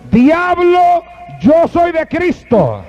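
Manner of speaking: put-on old man stands his ground, slow and high; old man rebuking the devil.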